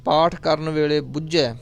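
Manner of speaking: drawn-out, chanted scripture reading; slow gurbani recitation. Acted. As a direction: recite it slowly and reverently.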